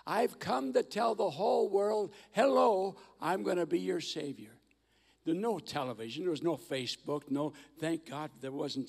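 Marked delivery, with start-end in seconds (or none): 0.1-4.6 higher and louder, a bright proclamation; Jesus introducing himself to the world as Savior; announcing Jesus. Acted. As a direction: call out "Hello" to the whole world.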